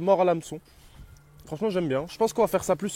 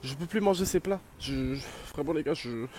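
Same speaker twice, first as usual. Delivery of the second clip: mock breakdown; 4 semitones higher than usual. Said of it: "je suis désolé de craquer comme ça".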